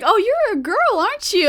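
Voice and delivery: high, loud teasing voice; mock teasing question. YouTuber teasing a gamer in the lobby, mock girly. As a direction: play along with the troll. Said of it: "And he was like".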